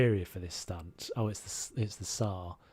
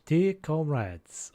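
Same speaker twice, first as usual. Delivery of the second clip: slow, higher, put-on Scottish accent; 4 semitones higher, 4 dB louder, much slower than usual. Gamer trying a character's Scottish voice, hammed-up Scottish accent. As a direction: attempt a drawn-out Scottish greeting. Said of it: "He's a Scottish".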